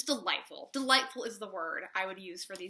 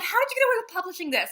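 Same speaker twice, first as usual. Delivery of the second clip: fast, higher and louder disbelief; incredulous; 11 semitones higher, 7 dB louder, much faster than usual. Retold or imitated. Reader marvelling at the author, fast and incredulous. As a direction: rattle it off in amazed disbelief. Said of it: "And I'm like".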